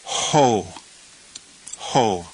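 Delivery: "ho" with an audible h, repeated after a pause; Greek word demonstration. Shown as a demonstration. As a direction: model "ho" twice, each a separate syllable. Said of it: "we will pronounce this word".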